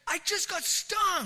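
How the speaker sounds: high-pitched, drawn-out alarm; distressed cry. Retold or imitated. Wife sitting up in bed after a sting, alarmed cry. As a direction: imitate a shocked, hurt complaint.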